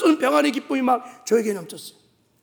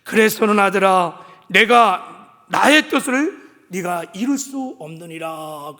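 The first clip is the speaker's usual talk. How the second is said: a lightly voiced God, lower and slowed, addressing his son; 4 semitones lower, slower than usual. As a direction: speak as God would, gently and slow. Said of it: "이렇게 말씀하세요". (살짝 낮고 느린 하나님의 음성)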